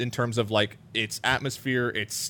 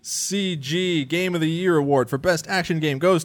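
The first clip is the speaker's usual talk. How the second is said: award announcement; 3 semitones higher, slower than usual. Real, not acted.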